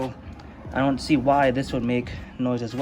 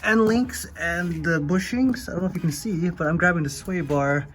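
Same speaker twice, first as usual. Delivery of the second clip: talking while lying under a car; strained, lying on your back under a car; 4 semitones higher than usual. Real, not acted. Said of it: "I'm under the car".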